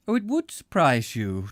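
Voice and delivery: calm, placid reply; unruffled, nothing surprises him. A narrator's reading. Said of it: "still in the same placid voice".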